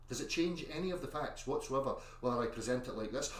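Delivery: calm. Shown as a demonstration. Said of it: "whether I sit here all calmly".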